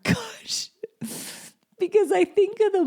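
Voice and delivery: real tearful catch, voice lifting high; fighting back real tears; mother moved to tears by her own promise; emotional. Real, not acted. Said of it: "I'm getting so emotional".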